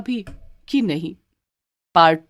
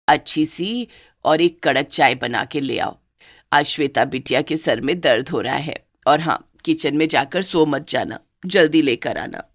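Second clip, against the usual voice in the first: bossy mother-in-law; 3 semitones lower than usual. Acted.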